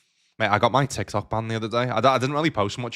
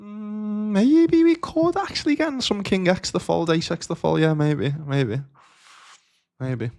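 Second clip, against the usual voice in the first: much higher put-on voice, slow at first, then fading back; put-on musing voice; 10 semitones higher, 3 dB louder, slower than usual. Streamer muses on a bluff, high slow put-on voice. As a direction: toy with the bluff in a squeaky character voice.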